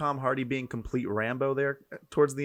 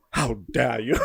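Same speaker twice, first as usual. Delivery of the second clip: mock offended Brit; 2 semitones lower, much slower than usual. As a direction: pretend outrage in an English voice. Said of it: "They are so offended right now".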